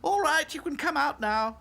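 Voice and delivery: high, lightly amused doll voice; amused Dotty. A narrator's reading. Dotty calling friends from hiding, mildly amused. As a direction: call it high with a touch of amusement. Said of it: "laughed Dotty".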